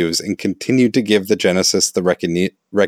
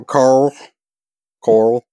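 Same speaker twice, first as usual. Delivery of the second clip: desperate yelling; 5 semitones higher, slower than usual. Pretend. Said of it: "Say it like a zombie's attacking him".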